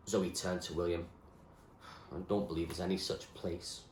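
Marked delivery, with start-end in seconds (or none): 2.1-3.8 sad. Acted. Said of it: "she said sadly".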